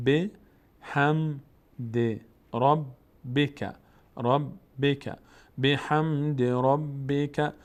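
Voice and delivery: بحمد ربک chanted slowly; very slow recitation. Shown as a demonstration. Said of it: "recitation drill".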